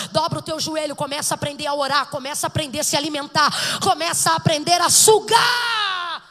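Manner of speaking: loud, building sermon delivery that peaks in a shout; a preacher exhorting the church to pray at full volume; full-force preaching. Acted. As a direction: drive every line harder until it breaks into a shout.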